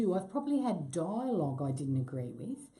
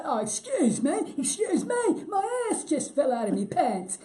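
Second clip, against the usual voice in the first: high, loud mock old-timer complaint; imitated old guy character; 8 semitones higher, 5 dB louder than usual. Imitating co-star's old guy in their game, high loud voice. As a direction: top the last line as a hammed-up old man. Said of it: "And then she'd say".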